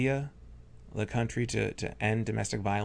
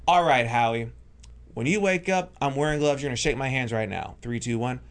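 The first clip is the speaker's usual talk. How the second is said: retold stage voice. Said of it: "you just hear my voice go".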